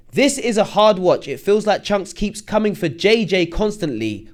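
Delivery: slow, deliberate second read; careful reread. Shown as a demonstration. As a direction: read it again slowly and clearly. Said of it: "Let me go again".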